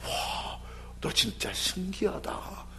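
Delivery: hushed, breathed wonder, slowly drawn out; marvelling. Acted. Jesus amazed at the centurion, acted soft, slow wonder. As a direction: marvel softly under your breath. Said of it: "기이 여기셨다".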